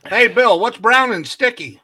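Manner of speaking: put-on announced loud, slow, like an old phone; over an old rotary phone. Shown as a demonstration. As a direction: joke told big down a bad phone line. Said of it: "we're phoning it in now".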